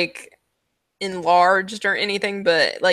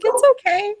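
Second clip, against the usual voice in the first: soothing showman; 13 semitones higher, faster than usual. Acted. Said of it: "he's like".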